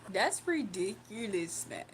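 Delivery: put-on "That's ridiculous" drawn out slowly, echoing the friend's accent; copying his accent. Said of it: "pick up the accent so I can talk like it".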